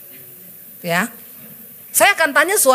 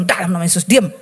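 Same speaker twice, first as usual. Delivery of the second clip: rebuke; 7 semitones lower than usual. Retold or imitated. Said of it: "saya bilang".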